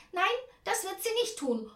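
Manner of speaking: high, loud refusal; firm shout. A narrator's reading. Aunt answers for the child, calling out a refusal. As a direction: cut in and forbid it. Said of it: "ruft Tante Ernie".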